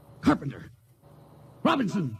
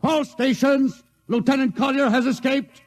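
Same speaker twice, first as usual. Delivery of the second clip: rally every station at once; shouting orders; 8 semitones higher than usual. Acted. Captain alerts the whole crew.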